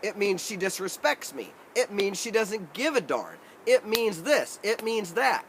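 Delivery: lightly hammed-up grievance; petty ego voice. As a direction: let the wounded ego rant, building. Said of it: "My ego is right there and wants to say".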